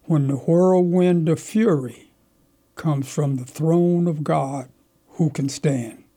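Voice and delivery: slow, solemn recitation of a verse; measured poetic delivery, words drawn out; reciting poetry. Shown as a demonstration. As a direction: intone the lines slowly like a preacher. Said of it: "he says this".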